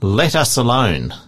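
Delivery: measured Bible read-aloud; reading scripture to a study group. Real, not acted. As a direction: read the verses out evenly and deliberately.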